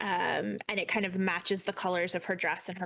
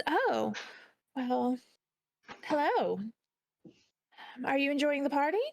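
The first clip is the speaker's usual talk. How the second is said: put-on higher-pitched woman, lightly American-accented; slightly off American accent; 6 semitones higher than usual. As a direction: play a not-quite-right American accent. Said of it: "she says in an American accent, but it's a little off".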